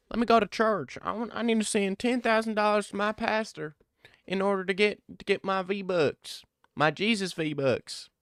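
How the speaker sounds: high hammed-up Southern redneck accent. Streamer mocks a rural Southern fighter in a high hammed-up Southern accent. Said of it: "The accent, of course".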